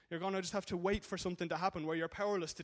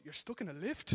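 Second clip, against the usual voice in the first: mildly imitating a surprised phone operator; a hint of incredulous rise on lift; surprised disbelief. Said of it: "the surprise in her voice".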